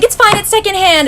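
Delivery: imitated reassurance. Hosts dismissing the broken chair, imitated reassurance. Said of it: "but they're super cool".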